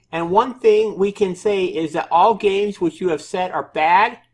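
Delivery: high, mocking developer voice; developer's voice. Quoting the developer's complaint about bad reviews in a high mock voice. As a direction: put on a high-pitched voice for the developer. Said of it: "try to read this in his, in his voice".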